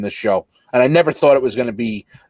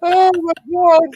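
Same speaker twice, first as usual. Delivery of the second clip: delighted; 14 semitones higher, 4 dB louder than usual. Real, not acted. Delighted reaction to the joke.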